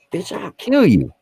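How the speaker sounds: slow, very high mock menace; hammed-up crazed threat, drawn out and high-pitched; retold wild threat. Retold threat while high on morphine.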